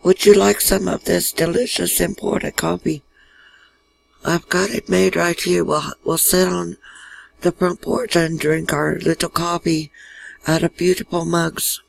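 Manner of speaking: lightly imitated German accent; a hint of German hostess, mock accent. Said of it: "in her German accent".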